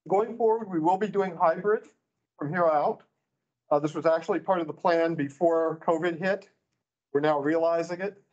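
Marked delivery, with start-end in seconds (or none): 3.7-8.2 muffled behind a mask; through a face mask. Real, not acted. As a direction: speak through a cloth mask. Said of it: "speaking through a mask is actually taking a little extra breathing".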